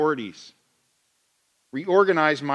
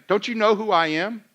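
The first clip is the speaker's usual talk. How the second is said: mock entitlement; 4 semitones higher, 3 dB louder than usual. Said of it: "what I'm saying".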